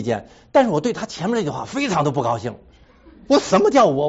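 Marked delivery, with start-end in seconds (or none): 3.3-4.1 retold indignation. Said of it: "所以就发脾气了".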